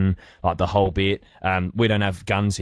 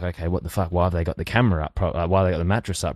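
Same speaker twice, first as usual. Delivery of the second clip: puzzled guards; faster than usual. Retold or imitated. Guards puzzled, voiced quickly.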